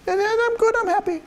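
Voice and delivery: high-pitched, understated mock contentment; calm and reserved. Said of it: "it's just kinda like that".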